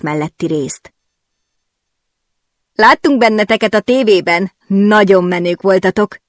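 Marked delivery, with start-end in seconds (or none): 2.7-6.2 beaming greeting. Acted. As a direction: greet them with a wide grin. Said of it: "füligérő szájjal". (fülig érő szájjal)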